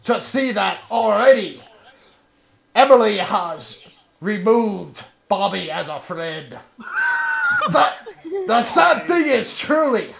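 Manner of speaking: hammed-up grand lament; milk every word dramatically; dramatic reading. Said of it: "con guy being all dramatic".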